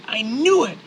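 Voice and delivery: high-pitched enraged dad shouting; furious scream. Acted. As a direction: scream it like a father at breaking point. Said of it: "Your father becomes furious. He screams".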